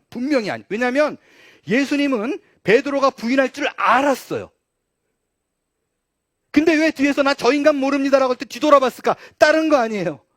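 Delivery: loud, high, driving sermon voice; impassioned preaching. Real, not acted. Preacher explaining why Jesus turned around, impassioned. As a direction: build the argument at full force.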